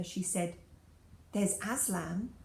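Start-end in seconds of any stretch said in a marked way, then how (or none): 1.3-2.3 forcing the words out slowly; great effort. Acted. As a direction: push the name out against heavy weight. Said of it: "with an effort that seemed to take all the good out of her".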